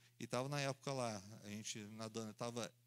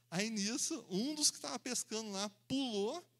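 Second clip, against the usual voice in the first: ordinary talk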